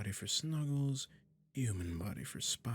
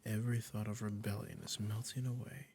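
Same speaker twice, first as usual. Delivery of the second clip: tender witch. Acted. Witch comforting the cat she transformed, tender and doting. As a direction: coo to the pet you just changed.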